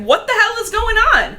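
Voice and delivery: Tiger Claw yelling. Retold or imitated. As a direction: blow up at them. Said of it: "then Tiger Claw's like".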